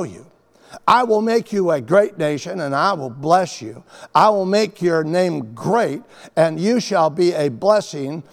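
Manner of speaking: emphatic, measured proclamation with pauses; solemn scripture reading. Acted. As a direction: declare it as God's promise to Abram. Reads God's words from scripture.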